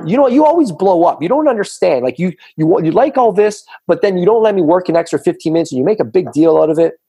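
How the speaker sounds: hammed-up angry husband blaming her; mock blowup.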